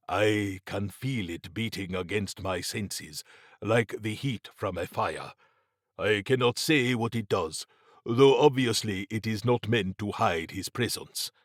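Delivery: measured, formal character voice; lightly voiced Mabati, concerned. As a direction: lightly play a grave adviser explaining.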